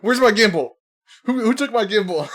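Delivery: high, petty imitation; mocking whine. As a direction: parody his demand. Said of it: "mocks S0 asking for gimbal".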